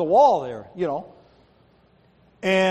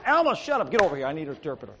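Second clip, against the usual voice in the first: barking orders; faster than usual. Retold or imitated. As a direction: imitate an impatient boss rattling off orders. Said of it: "I'm good at barking orders".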